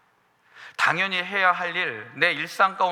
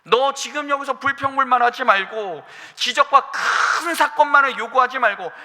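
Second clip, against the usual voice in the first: voice of God; 4 semitones higher, 5 dB louder than usual. Acted. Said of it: "하나님께서 엘리야에게 그것을 요구하시는 겁니다".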